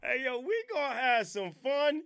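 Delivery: loud hype shout to the live; excited. Real, not acted. Host hyping his live viewers, loud excited call.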